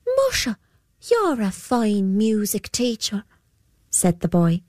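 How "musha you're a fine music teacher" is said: a lad amazed at his own playing; young boy voice. Boy praises the Púca.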